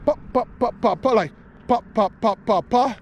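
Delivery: short high popping sounds; mimicked lure pops. Shown as a demonstration. Demonstrating the worm action to viewers with quick high pops. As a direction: tap out each pop of the lure sharply. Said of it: "So what I did was I went".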